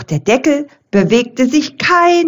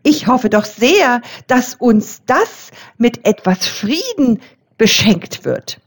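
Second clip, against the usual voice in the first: much higher, bright little bell; hopeful little bell; 6 semitones higher than usual. A narrator's reading. The youngest bell dreams of Christmas peace, high and bright. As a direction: ring out your hope like a tiny bell. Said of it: "Die Hoffnungsglocke tönte".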